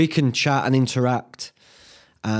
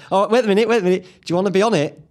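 sudden excited idea; 7 semitones higher, 3 dB louder, faster than usual. Real, not acted.

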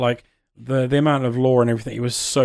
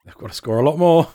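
excited; 5 semitones higher, 6 dB louder than usual. Real, not acted. Reacting to football score.

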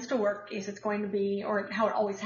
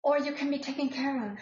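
put-on Russian accent. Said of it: "with a fabulous Russian accent".

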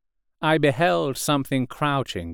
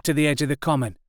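"to the edge of the common" said higher in the soldier's voice; lightly voiced soldier; artilleryman; 4 semitones higher, much faster than usual. A narrator's reading. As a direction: claim the boundary. Artilleryman voice, same words.

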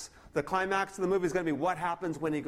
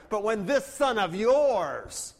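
very slow and louder, leaning hard on this; an elder son sneering at his father; scornful; 4 dB louder, much slower than usual. Retold or imitated. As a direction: drag it out with contempt. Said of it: "almost profaning and swearing".

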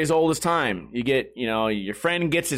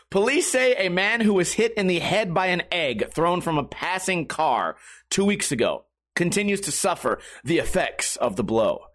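ordinary talk, nothing marked

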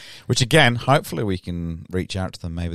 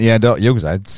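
put-on slower, louder Michigan accent; 2 semitones higher, 7 dB louder than usual. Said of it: "that's a Michigan accent".

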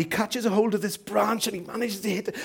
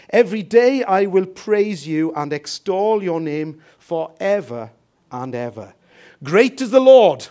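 louder, declaimed psalm reading; scripture reading; 6 dB louder than usual. Real, not acted. Preacher reads favourite Psalm to church, emphatic declamation. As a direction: proclaim the verses with weighty pauses.

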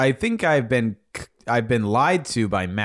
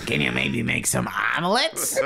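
laughing. Real, not acted. Reads while laughing.

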